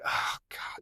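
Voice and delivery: soft, voiceless groan of dread; exasperated son. Retold or imitated. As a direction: imitate a kid sighing at being summoned. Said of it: "you could hear it in his voice".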